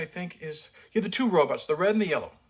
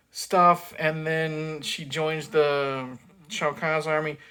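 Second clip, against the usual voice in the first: ordinary delivery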